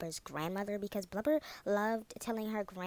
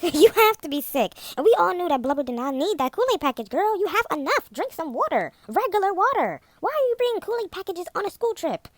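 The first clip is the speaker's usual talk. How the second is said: much louder and higher, incredulous; laughing outrage; 9 semitones higher, 10 dB louder than usual. Real, not acted. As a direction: yell it half laughing in disbelief.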